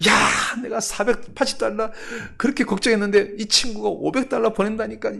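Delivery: high-pitched acted delight; overjoyed pastor. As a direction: exclaim it high, as if dancing for joy. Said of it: "너무 기뻐서 막 춤을 췄어요".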